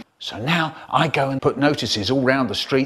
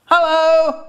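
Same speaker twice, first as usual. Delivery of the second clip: menacing villain greeting; 13 semitones higher, 5 dB louder than usual. Acted. Richard's head pops up.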